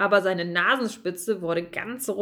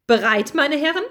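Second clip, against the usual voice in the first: a little higher, squeaky question; squeaked; 4 semitones higher, 5 dB louder than usual. Acted. Bertram asks his friends if they're ready, squeaky. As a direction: squeak it like a nervous little mouse. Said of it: "piepste er".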